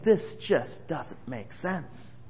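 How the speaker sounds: slow, soft and baffled; puzzled muttering. Retold or imitated. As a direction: drag it out like you can't work it out. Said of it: "scratching their heads and saying".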